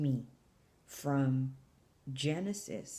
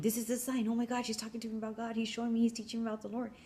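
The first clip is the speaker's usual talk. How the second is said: higher, fast, breathless-with-news rush; excited realization; 5 semitones higher, faster than usual. Retold or imitated. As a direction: tumble it out as the sign dawns. Realizing the sign she asked for.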